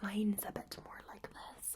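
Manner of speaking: put-on whispered Scottish island accent. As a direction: imitate an islander's lilt in a whisper. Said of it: "some of you are from the Highlands and the Islands".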